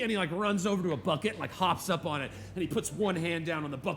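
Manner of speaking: put-on very high, loud shouting kid; jacked-up little boy. Boy showing off to his father on a bucket, very high and shouting. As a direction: show off at the top of your lungs. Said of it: "He's like".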